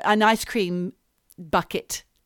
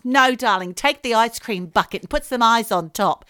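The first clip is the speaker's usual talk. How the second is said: mum voice; 5 dB louder than usual. Pretend. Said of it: "That's what she'll say".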